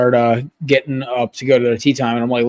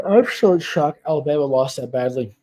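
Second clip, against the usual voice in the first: yawning. Real, not acted. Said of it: "I'm freaking yawning".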